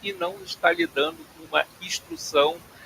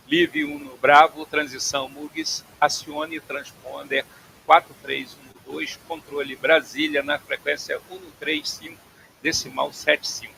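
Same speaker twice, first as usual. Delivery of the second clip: steady, measured controller readout; radio clearance read. Shown as a demonstration. Instructor reading a clearance to students, measured radio voice. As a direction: read it out like air traffic control. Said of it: "e essa que seria a entonação".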